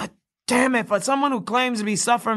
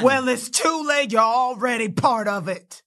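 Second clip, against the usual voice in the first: shout. Acted. Nell shouts back.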